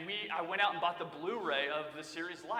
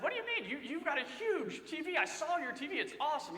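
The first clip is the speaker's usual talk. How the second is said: higher, puzzled disbelief; retold surprise; 9 semitones higher than usual. Telling Sam his TV is great, puzzled and higher. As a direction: act baffled, pitch up.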